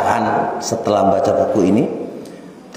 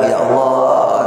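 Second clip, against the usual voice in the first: slow mock lament; much slower than usual. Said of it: "Jangan bilang".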